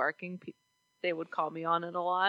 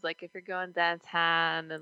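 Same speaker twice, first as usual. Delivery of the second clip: "downtown" said "dahntahn", flat Yinzer vowels; Pittsburgh accent. Shown as a demonstration. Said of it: "I can do the normal, the normal words".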